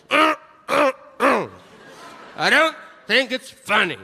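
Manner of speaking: high, strained grunts into a protest; mock objector. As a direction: play a whiny caricature of an offended heckler. Mocks an objecting audience member.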